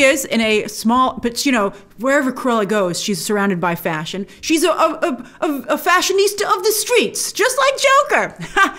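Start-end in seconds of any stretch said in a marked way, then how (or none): 4.4-8.7 high, laughing build to a drawn-out finish; amused. Real, not acted. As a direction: let a laugh lift the voice right up. Amused riff on a fashion line.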